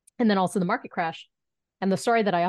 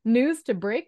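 high, questioning, lightly stunned; retold disbelief; 5 semitones higher than usual. Intern realizing she broke the news, mock stunned disbelief. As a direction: act out dawning disbelief with a rising question.

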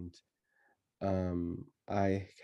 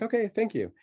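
put-on sweet little-kid thanks; 12 semitones higher than usual. Child thanking babysitter sweetly.

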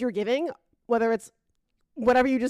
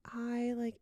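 whispering; 3 semitones higher, 8 dB quieter than usual. Retold or imitated. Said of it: "so quiet".

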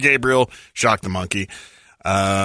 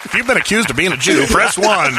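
phone menu voice; 6 semitones higher than usual. Acted.

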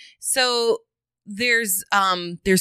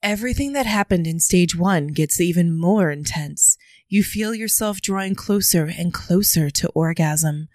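dom voice. Acted. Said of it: "dropping into Dom voice".

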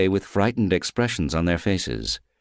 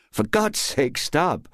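higher, pained exasperation; exasperated plea; 9 semitones higher, slower than usual. Acted. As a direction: make her stop, you can't bear it. Vader gruwt van kind.

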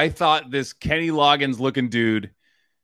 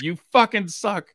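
mock actor line; 7 semitones higher than usual.

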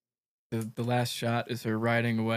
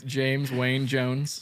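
slow grand name; much slower than usual. Real, not acted. Proposing a name, amused.

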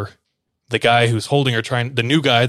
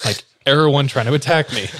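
laughing; 4 semitones higher than usual. Retold or imitated. Laughing while quoting the letter.

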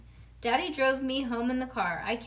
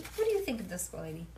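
usual speaking voice

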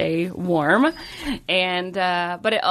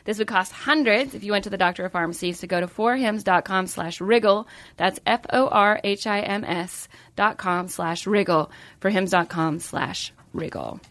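smooth sponsor ad voice; ad read. Acted. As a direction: read it like a podcast ad. Reads sponsor ad.

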